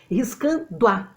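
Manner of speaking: "Riscando a" in slow beats, "do a" fused as dwa; slow metrical reading, Ris-can-dwa; scanned with elision. Shown as a demonstration. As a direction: run the last vowel of "Riscando" into "a". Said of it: "Olha como eu leio agora".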